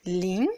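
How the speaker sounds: rising tone "ling", brief; second tone ling. Shown as a demonstration. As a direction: lift "ling" like a quick question. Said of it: "le zéro en chinois qui se dit".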